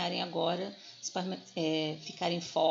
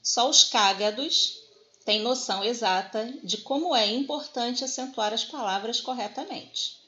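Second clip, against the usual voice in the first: reading the comic strip; 2 semitones higher, 3 dB louder than usual. Shown as a demonstration. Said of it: "a tirinha diz assim".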